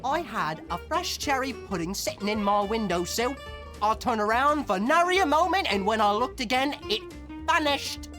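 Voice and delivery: dramatic recounting. Acted. Client tells detectives of her missing pudding, high dramatic recounting. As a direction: tell it as a breathless-with-drama mystery.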